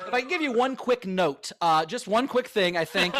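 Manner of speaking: lightly voiced director giving a note; gently hedging like a fussy director; impression of Ben. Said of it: "how do you think Ben mastered my impression".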